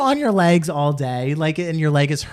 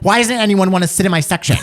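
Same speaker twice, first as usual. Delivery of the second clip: laughing; 4 semitones higher, 4 dB louder than usual. Retold or imitated. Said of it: "And I was like".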